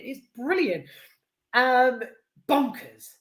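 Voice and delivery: ordinary delivery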